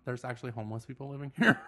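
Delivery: laughing. Retold or imitated. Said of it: "You could just say".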